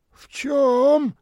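высоко и громче; переспроси с гримасой; сморщенное недоумение. A narrator's reading. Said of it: "сморщилась та". (бомжиха переспрашивает даму, сморщившись)

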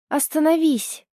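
high, strained hoarse shout; ragged cry to stop him. Acted. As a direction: force it through a torn voice. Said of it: "прохрипела сорванным голосом".

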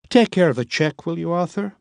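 a composed woman giving an order; Miss Lipp. A narrator's reading. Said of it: "Miss Lipp voiced in story".

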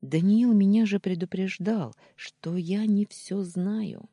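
high, loud wail of self-blame; close to tears. A narrator's reading. Heroine losing control before comforting Kirill, tearful outburst. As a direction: let it rise as tears break through. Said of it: "а я, уже не сдерживаясь, заплакала".

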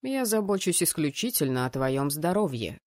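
patronizing male voice; lightly voiced condescension; condescending fiancé. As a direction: talk down with feigned concern. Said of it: "снисходительно пояснил жених".

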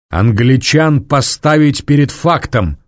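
forceful, each word hit; emphatic chopping. A narrator's reading. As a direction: hammer the point home. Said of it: "рубил рукой воздух генерал".

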